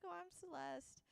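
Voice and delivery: high, slow mock introduction; high-pitched introduction. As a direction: act out introducing yourself, high and drawn out. Acting out awkward introductions.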